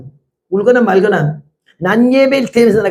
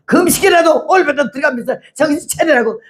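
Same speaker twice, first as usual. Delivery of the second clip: 1 mock scolding; 6 semitones higher than usual. Retold scolding from the pulpit.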